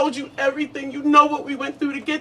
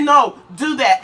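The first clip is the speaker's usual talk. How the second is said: angry; 3 dB louder, slower than usual. Acted. Fed-up woman dismisses him.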